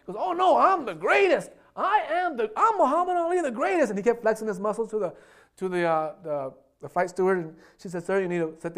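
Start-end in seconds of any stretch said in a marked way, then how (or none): 0.2-3.9 high-pitched boastful yell, imitating a champion; Muhammad Ali. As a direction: crow defiantly over the stewardess. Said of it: "yelling at the top of his lungs".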